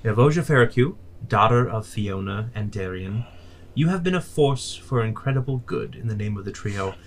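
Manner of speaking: solemn, booming pronouncement of a deity; formal godly decree. Acted. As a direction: proclaim it like a goddess bestowing an honor. God addresses Eve formally.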